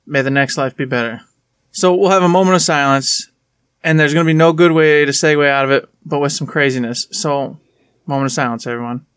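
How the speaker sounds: hushed, respectful memorial tone. Real, not acted. Solemn tribute to deceased.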